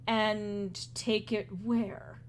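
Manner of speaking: slow, puzzled question; stopped short, then a slow question; baffled, halting. Acted. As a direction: draw the words out in slow bafflement. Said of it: "he halts himself mid-sentence".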